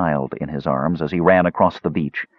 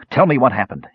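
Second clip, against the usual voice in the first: command; 5 semitones higher, 3 dB louder than usual. Acted. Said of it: "he commanded".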